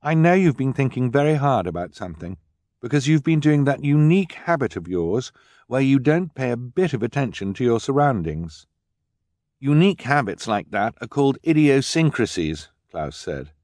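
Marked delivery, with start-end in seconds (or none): 0.0-8.7 put-on higher girlish teasing; knowing sisterly tone; young girl Violet. Violet to brother. 9.6-12.7 put-on higher know-it-all boy; bookish boy Klaus. Klaus lectures.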